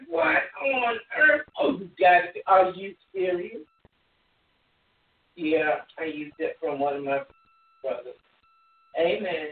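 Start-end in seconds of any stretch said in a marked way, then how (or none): 0.1-3.6 hammed-up outrage at the news; indignant brother. Older brother hearing his brother is back, indignant. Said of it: "He's like".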